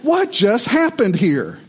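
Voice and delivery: high, laughing disbelief after a rough landing; shocked relief. Retold or imitated. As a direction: gasp it out half laughing, stunned. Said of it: "we're like".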